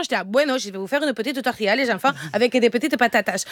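put-on French with a Spanish accent. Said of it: "avec l'accent".

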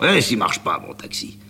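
fierté narquoise qui retombe en souffle; triomphant. Acted. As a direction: savourer sa victoire. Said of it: "il triomphe". (le chauffeur triomphe, moteur en marche, face à Amanda)

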